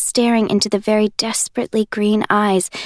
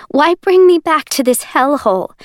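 higher, louder, voice cracking with fear; voice starting to break; 6 semitones higher, 5 dB louder than usual. Acted. Juliet demanding answers from Warner, voice breaking. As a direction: fight to keep the voice steady and fail. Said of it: "My voice is starting to break".

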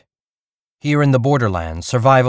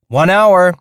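loud, higher call while running off; called over shoulder; 8 semitones higher, 7 dB louder than usual. Acted. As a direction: shout it back over your shoulder. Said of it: "Perry called over his shoulder".

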